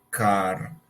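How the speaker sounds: "car" ending in a clear R; American car, R sounded. Shown as a demonstration. Teacher modelling American "car" with R. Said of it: "We say in American English".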